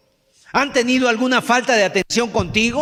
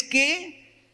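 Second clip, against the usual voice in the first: mock disbelief; 3 semitones higher than usual. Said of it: "tú te quedas sorprendido y tú dices".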